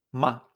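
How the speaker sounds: MA corto, grave, sin tono; tono neutro. Shown as a demonstration. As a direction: suelta MA breve y sin acento. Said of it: "Y el tono neutro". («ma» neutro, corto y bajo)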